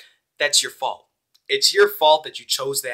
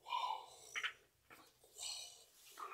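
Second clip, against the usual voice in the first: breathy whoa; 27 dB quieter than usual. Retold or imitated. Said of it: "I'm like".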